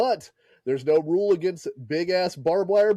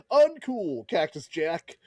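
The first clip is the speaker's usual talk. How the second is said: mock scolding Bischoff; slower than usual. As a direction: scold him lightly as the boss. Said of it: "Bischoff comes out and he's like".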